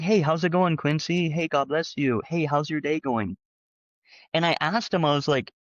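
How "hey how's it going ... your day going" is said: bright, much higher friendly greeting voice; cheery greeting. Retold or imitated. Showing how he always greets church staff, cheerful and high. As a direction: greet everyone with an upbeat lilt. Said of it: "I'm always like".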